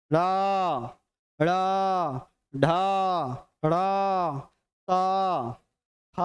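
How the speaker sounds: "र, ड़, ढ, ढ़, त, थ", each held long; resonant, ringing. Shown as a demonstration. Teacher listing echoing letters, "र, ड़, ढ, ढ़, त, थ" each sustained. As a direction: let each of "र, ड़, ढ, ढ़, त, थ" ring before the next. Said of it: "गुंजन हो रहा है जिस वर्ण में".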